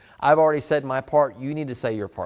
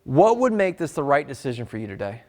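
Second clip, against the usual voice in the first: calm conversational question. Shown as a demonstration. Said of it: "Here's what you say".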